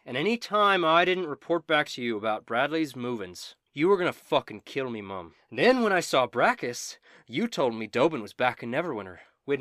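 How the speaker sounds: lightly voiced, wronged Quinn, building in anger; angry in-character tirade, pushing harder on the threats; Quinn confronting a betrayer. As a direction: accuse him with rising force.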